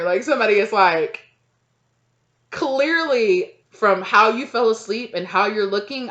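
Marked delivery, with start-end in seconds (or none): 2.5-6.1 knowing accusation. Acted. Acted accuser confronting the sleeper.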